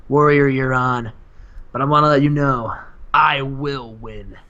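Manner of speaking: lightly acted stern, measured challenger; deliberate promo with long pauses; Goldberg. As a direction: answer the challenge gravely, in measured phrases. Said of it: "and he says".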